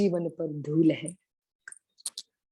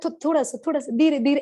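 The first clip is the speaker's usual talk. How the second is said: scared plea; 5 semitones higher, faster than usual. Retold or imitated. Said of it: "मुझे बड़ा डर लगता है".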